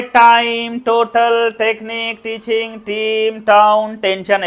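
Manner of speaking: hard unaspirated retroflex T; Indian English T. Shown as a demonstration. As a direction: recite टाइम, टोटल, टेक्निक with a flat Indian ट, no puff. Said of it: "ऐसा बोला जाता है".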